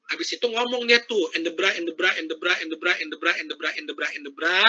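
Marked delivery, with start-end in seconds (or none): 1.4-4.6 soft garbled filler babble; mock mumbling. Shown as a demonstration. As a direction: mumble meaningless sounds on purpose. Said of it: "jangan melakukan, ya, kesalahan seperti ini". (menirukan ocehan tidak jelas)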